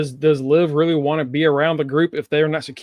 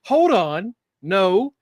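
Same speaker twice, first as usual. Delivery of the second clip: high, hurried imitation of Liv holding them back; lightly voiced Liv trying to calm the room; Liv calming things; 8 semitones higher, much slower than usual. Host acting out Liv stopping the argument, high mock alarm. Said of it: "Liv's like".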